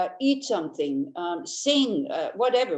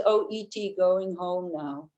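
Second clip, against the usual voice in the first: slow, lightly voiced alien; imitating E T. Teacher recalls E T's farewell, lightly voiced alien. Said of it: "when E T says".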